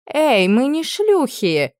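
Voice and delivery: indignant protest. Acted. Camp follower protesting to the cook, indignant. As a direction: protest the insult. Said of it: "возмутилась одна из женщин".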